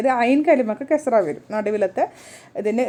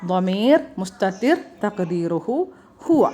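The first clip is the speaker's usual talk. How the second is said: ളമീർ മുസ്തതിർ തഖ്ദീറുഹു ഹുവ recited slowly, word by word; teacher slowly reciting the grammar formula to students; slow recitation; slower than usual. Shown as a demonstration. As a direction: chant the formula slowly for memorising.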